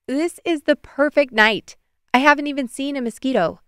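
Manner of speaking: contented sigh. A narrator's reading. Megan admiring the night beside Tag, sighing happily. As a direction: sigh it out with pleasure. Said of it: "Megan sighed".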